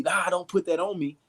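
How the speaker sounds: mild mock yell of protest; mock screaming. Wounded man yelling at the one treating him, mild mock yell. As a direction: push it away with a half-hearted yell. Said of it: "you start screaming and yelling".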